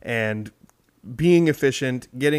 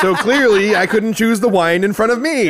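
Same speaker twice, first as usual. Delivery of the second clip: laughing; 8 semitones higher, 6 dB louder than usual. Real, not acted. Joking Princess Bride quote.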